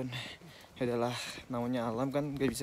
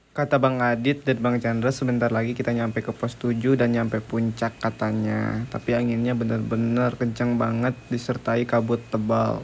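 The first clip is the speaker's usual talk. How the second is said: shouting over wind; 2 semitones lower, 11 dB louder than usual. Real, not acted. Narrating in strong wind.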